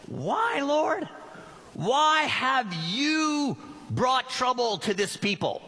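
pleading Moses. Acted. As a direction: cry out to God, desperate.

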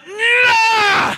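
high shouted no; sudden high pained shout; anguished cry. Retold or imitated. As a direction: yell it as the bite hits. Crying out at shark bite.

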